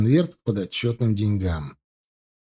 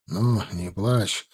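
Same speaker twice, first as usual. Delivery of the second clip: comforting; 3 semitones lower, 4 dB quieter, much slower than usual. Acted. Husband comforting crying wife.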